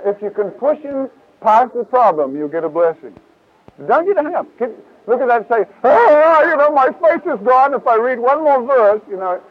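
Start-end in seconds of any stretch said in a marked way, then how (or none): 5.9-9.0 loud, high mock whine of a doubter. Preacher mocking a fainthearted Bible reader, whiny. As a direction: ham up the doubter's wail.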